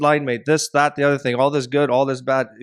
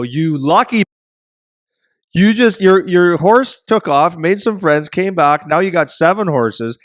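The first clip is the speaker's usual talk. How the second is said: retold neighbor, louder and higher, gushing over the luck; envious neighbor; 5 semitones higher, 4 dB louder than usual. Neighbor envies the farmer's seven horses, excited and louder. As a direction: play the jealous neighbor hyping up the new horses.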